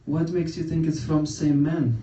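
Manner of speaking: slow, coy imitation of mom; flirty mom. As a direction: tease it out slowly, imitating a flirt. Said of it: "she likes to flirt it out".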